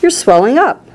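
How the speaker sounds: high, mildly screamed alarm. A narrator's reading. Mother sees daughter swell, mild high scream. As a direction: cry out high, rising at the end. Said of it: "screamed Missus Beauregard".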